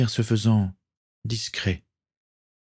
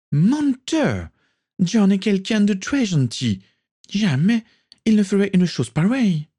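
put-on much higher, louder furious girl; furious cry; 13 semitones higher, 3 dB louder than usual. A narrator's reading. Sister shouting at her brother, furious. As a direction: shout him down, defending John.

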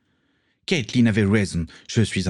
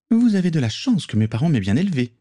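put-on higher, scornful young woman's voice; young pirate woman; 8 semitones higher, faster than usual. Morgan scolds the count, scornful female voice. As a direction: talk down to the cowardly count.

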